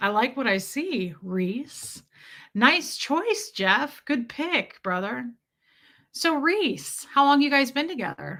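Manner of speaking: slow, syrupy, sugary, gross flirtatious drawl. Retelling what people would say while eyeing the speaker, imitating a slow syrupy voice. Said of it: "they'd slow their voice down, they'd get all syrupy".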